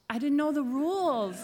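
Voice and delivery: giggling at her own mistake; laughing. Real, not acted. Preacher laughing at her church blunder, laughing.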